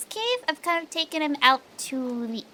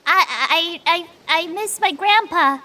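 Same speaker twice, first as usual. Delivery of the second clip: fake sad; slower than usual. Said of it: "she's like".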